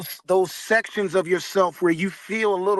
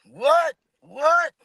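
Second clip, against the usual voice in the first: surprised; 9 semitones higher, 6 dB louder, much slower than usual. Retold or imitated. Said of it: "You're like".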